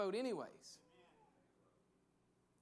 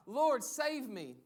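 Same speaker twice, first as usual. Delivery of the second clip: a slow, louder plea; cry for help; 3 semitones higher, 5 dB louder, much slower than usual. Retold or imitated. Pastor voicing Peter crying out on the water, slow loud plea. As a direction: call out like a sinking man. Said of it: "and he cries out".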